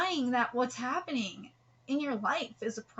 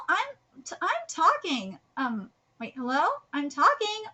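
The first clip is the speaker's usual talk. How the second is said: demanding attention; 3 semitones higher than usual. Acted. Acts ignored character demanding attention.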